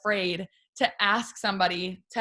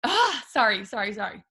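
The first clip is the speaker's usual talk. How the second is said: voicing daughter; 3 dB louder than usual. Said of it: "Huntley comes in and goes".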